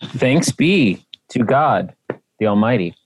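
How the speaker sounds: slow, drawn-out church response; liturgical response. Acted. Co-host answers the reading like church, slow liturgical response. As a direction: answer like a congregation, slowly. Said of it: "liturgical response after reading".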